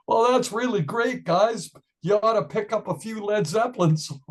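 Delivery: lightly voiced condescending agent; a hint of a patronising booking agent; mock agent voice.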